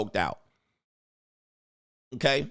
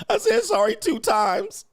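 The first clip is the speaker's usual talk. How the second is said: much higher, slow, drawn-out mocking whine; 4 dB louder than usual. Host mocking the woman's apology, high slow whine. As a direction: stretch it out like a sulky child. Parodying her repeated apology.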